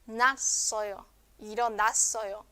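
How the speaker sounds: nasoyo with one a, then ironasoyo; joined syllable. Shown as a demonstration. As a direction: na and a fused in ironasoyo. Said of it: "Se junta en una sola sílaba".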